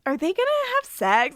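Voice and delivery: incredulous. Retold or imitated. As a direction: blurt it out in disbelief. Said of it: "and I am like".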